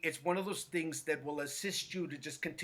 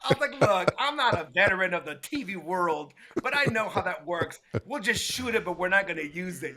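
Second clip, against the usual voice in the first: louder, insistent retort to the boss; firm push-back; 6 dB louder than usual. Retold or imitated. Stylist refuses the director's order, louder and insistent. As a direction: stand your ground, raising your voice a little.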